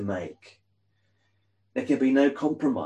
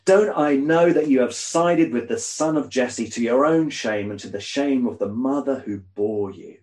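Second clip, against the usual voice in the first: a bit louder, heated accusation; angry king; 3 semitones higher, 3 dB louder than usual. Acted. Saul berating Jonathan at the feast, heated and loud. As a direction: press hard, still furious. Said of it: "Saul's anger flared up at Jonathan".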